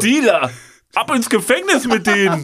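high, loud hammed-up indignation; mock outraged shout. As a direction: bellow it like a mock prosecutor.

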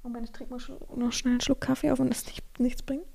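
struggling to get sound out; voice giving out. Real, not acted. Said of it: "meine Stimme ist weg".

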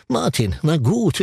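slow, strange drawn-out doctor voice; odd character voice. Retold or imitated. Actor demos the odd doctor voice, slow and strange. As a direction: speak slowly like a quirky doctor. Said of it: "und spricht so".

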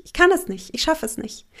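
a panicked retold cry; rising panic. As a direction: voice jumps up in mock panic. Retold overwhelm, higher.

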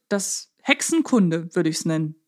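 ordinary talk, nothing marked

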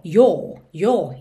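"Your" with a closed British O, jo. Shown as a demonstration. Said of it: "fecha um pouquinho mais esse som do O". ("Your" com O fechado britânico)

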